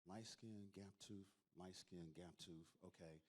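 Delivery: low, soft, under-the-breath tally; quietly ticking off features to himself; hushed, private counting under the breath; muttering to himself. Retold or imitated. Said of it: "I'm sitting there like".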